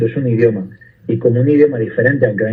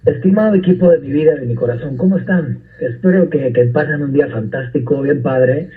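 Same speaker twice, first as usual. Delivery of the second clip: put-on Mexican accent. Greeting the technical crew each morning, in a Mexican accent. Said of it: "qué bien te sale".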